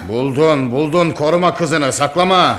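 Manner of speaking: angry, insistent accusation. Acted. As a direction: press her angrily to stop covering up. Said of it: "Mahmud'um öfkelenme". (öfkeli, suçlayıcı)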